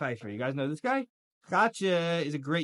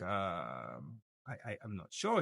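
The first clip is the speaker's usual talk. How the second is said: low, soft, hesitant stammer; the guard shrinks and stammers; nervous guard; 10 semitones lower, 8 dB quieter, slower than usual. Retold or imitated. Guard unsure how to answer the visitor, low nervous stammer. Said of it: "And the guard's like".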